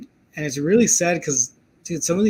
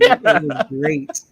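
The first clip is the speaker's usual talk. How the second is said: gushing praise; 12 semitones higher, 5 dB louder, much slower than usual. Real, not acted. Defending Nick Cage's odd accent.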